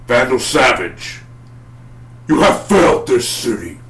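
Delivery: forceful mock vigilante declaration; Arrow. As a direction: pronounce judgement, loud and slow at first. Imitates Arrow's catchphrase.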